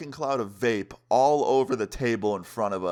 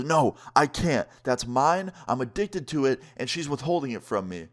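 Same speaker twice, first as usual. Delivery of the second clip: imitating indignant protest; 4 semitones higher than usual. Friend refusing to wait for his vape, indignant. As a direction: protest like a desperate, put-out friend.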